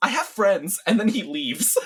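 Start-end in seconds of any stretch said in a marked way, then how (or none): 0.0-0.8 shouting, higher and louder. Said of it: "He just yells".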